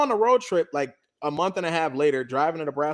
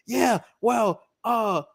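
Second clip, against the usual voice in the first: higher, sulky excuse voice; whiny boyfriend; 5 semitones higher than usual. Retold or imitated. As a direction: make excuses like a sulking boyfriend. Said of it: "ex-boyfriend whining his excuse".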